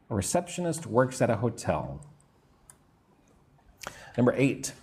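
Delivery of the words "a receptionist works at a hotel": whole sentence joined, "at a" as one word; connected model with reduced "at a"; linked AT A. Shown as a demonstration. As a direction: say it in one flow, linking "at a". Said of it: "put at and a together".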